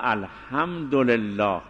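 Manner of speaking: الحمدلله said slowly and evenly, no run-on; slow with gaps. Shown as a demonstration. Teacher showing students careful recitation, slow. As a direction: stretch out الحمدلله with clean breaks. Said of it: "اگر بین الحمدلله فاصله باشه".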